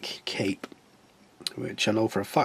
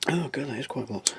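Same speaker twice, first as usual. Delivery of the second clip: ordinary talk, nothing marked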